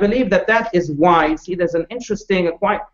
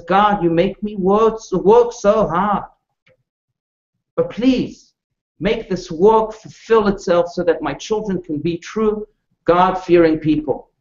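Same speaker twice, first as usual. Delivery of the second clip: slow, drawn-out plea to God; a mother's plea, retold slowly without sobbing; mild tearful prayer; 2 semitones higher, slower than usual. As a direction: draw out the pleading words, a touch of sorrow. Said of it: "she's crying for her children, and she says".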